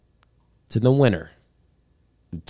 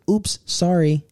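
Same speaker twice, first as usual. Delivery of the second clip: imitating date; 8 semitones higher, slower than usual. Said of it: "she's like".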